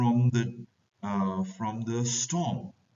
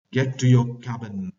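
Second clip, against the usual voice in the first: loud order to go below; bosun ordering; 7 dB louder than usual. Acted. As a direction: drive them off the deck. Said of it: "Bosun says".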